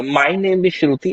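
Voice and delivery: slow, overdone intro; the wrong way to say it. Shown as a demonstration. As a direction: stretch it out too much. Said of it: "ऐसे मत करो".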